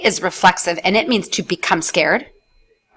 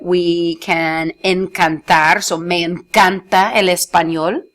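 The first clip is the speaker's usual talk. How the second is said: slow model word; slower than usual. Shown as a demonstration. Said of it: "or if we really like it".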